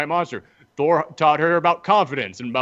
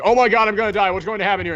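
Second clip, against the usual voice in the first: put-on teen panic; 5 semitones higher, faster than usual. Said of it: "reacts the way that any teenager would".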